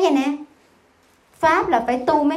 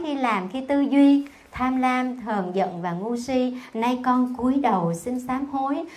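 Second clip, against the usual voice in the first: repentance prayer; slower than usual. Acted. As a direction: read the vow as a bowed, humble prayer. Recites the repentance text.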